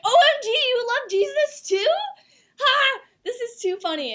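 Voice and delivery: very high, loud excited squeal; squealing little girl. Retold or imitated. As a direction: gush like a thrilled little girl. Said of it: "like a squealing little girl".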